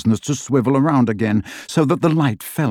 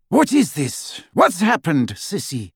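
menacing; 6 semitones higher than usual. Acted. Bellatrix arrives, voice feared.

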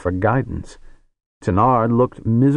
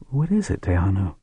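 rising worried ask, higher; higher anxious question; faster than usual. Acted. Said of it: "murmured to her daughter".

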